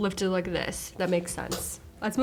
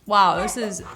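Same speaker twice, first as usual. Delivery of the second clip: laughing; 3 dB louder than usual. Real, not acted. Laughing at the nose clip.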